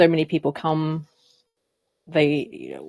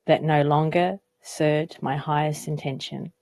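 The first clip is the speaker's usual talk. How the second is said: measured recital with long pauses between phrases; unhurried, evenly pitched poetry reading; poem reading. Acted. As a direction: read your own poem aloud, letting each line settle. Reads own poem aloud.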